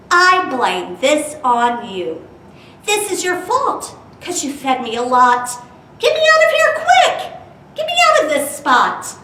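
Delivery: squeaky, high, loud fish yelling to get out; big fish in a tiny bowl, furious and squealing; mad goldfish. Acted. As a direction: blame the kid, demanding and cross. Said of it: "he looked mighty mad".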